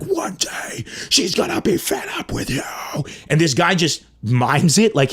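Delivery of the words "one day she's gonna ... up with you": whispered hammed-up menace on "One day she's gonna be fed up with you"; dramatic stage whisper. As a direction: hiss it like a brooding TikTok guy. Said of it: "but he's like".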